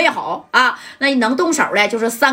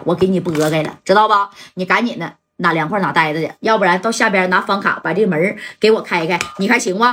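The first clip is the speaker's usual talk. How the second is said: lower, measured gangster boss; calm tough-guy voice; 3 semitones lower than usual. Retold or imitated. Gang boss coolly warning the manager, lower and steady. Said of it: "这戴哥就说了啊".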